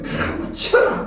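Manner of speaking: rough attempt at Gyeongsang intonation, drawn out; Gyeongsang accent. Preacher guesses at Gyeongsang speech for congregation, mock Gyeongsang accent. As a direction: imitate a Gyeongsang dialect outburst. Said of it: "하여튼 억양은 그렇습니다".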